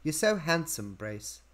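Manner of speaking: lightly put-on British accent; Margot Robbie. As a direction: imitate a British woman, trailing off. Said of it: "she's doing a British accent".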